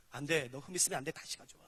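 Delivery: low, soft refusal fading to a whisper; God quietly turning it down; low quiet voice of God, whispered at the end; stern God refusing. Acted. God refusing a flawed offering.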